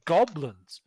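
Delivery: high, loud sassy ranting woman; sassy woman npc. Acted. GM voicing the dancer, ranting to the players in a high brassy voice. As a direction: rant about goblins in a shrill high voice. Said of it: "she's like".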